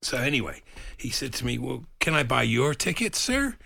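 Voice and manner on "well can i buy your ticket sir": American imitation drifting towards Irish; wobbly American accent. American asking to buy a ticket, wobbly imitated accent. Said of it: "Was he Irish?".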